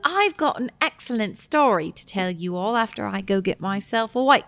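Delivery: playful mock British accent; put-on British accent. Host promising friends a story, mock British accent. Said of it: "speak in a British accent".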